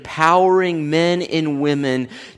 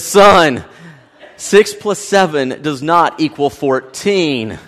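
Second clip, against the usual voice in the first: laughing; slower than usual. Retold or imitated. Coach line, teller laughing.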